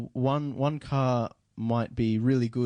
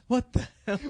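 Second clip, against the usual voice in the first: high, stunned what the hell; mock shock; 11 semitones higher than usual. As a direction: act floored by the car. Mock reaction to fast Jeep.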